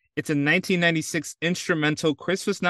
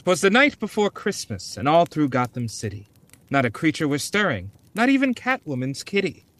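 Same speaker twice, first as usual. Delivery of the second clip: story reading. Acted. Reads Christmas poem aloud.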